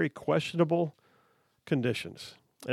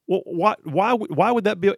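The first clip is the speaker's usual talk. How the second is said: higher-pitched, stammering retold challenge; mock indignant challenge; 5 semitones higher than usual. Host retelling a dad questioning the senator, mock indignant. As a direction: act out a dad's baffled protest.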